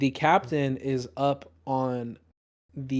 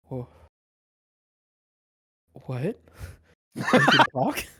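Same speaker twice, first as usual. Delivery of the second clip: much higher, laughing disbelief; amazed guards; 10 semitones higher, 5 dB louder, slower than usual. Acted. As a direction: gasp it out, half laughing in shock. Guards amazed prisoners talk.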